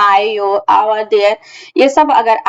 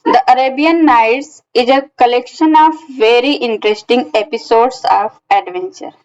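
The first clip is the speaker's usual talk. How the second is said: slow example reading; much slower than usual. Shown as a demonstration. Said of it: "next example हमारा है".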